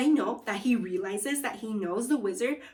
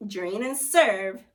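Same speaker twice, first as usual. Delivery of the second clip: chef announcing; 6 dB louder, slower than usual. Acted. Wizard announcing the dish.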